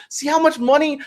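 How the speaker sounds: high, indignant plea. Retold or imitated. Fans pleading with security guards, high indignant cry. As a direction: wave it at security in outrage. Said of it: "people are holding their tickets".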